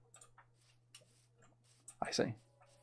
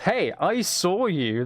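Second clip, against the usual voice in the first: ominous chat message; 5 semitones higher, much slower than usual. Retold or imitated. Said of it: "a message in chat that just says".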